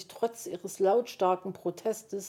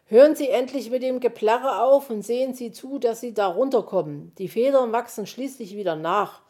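louder, irritated telling-off; scolding; 5 semitones higher, 8 dB louder than usual. A narrator's reading. Fox tells the wailing magpie to stop, scolding. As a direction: scold with loud impatience. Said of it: "schimpfte der Fuchs".

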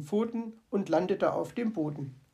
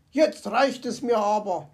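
furious hiss; 4 dB louder than usual. Acted. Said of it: "zischte er fuchsteufelswild".

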